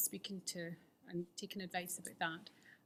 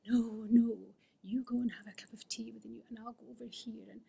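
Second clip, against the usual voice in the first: self-pitying brush-off; 3 semitones higher, 4 dB louder than usual. Retold or imitated. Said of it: "I was like".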